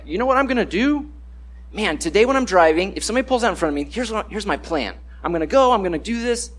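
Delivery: a hint of a scheming road-rager; mock scheming driver. Preacher mocks a driver planning anger, hammed-up.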